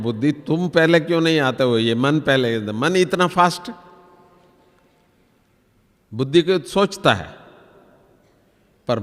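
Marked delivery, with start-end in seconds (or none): 0.0-3.7 asking intellect. Retold or imitated. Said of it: "तो मैं भी कहता हूं".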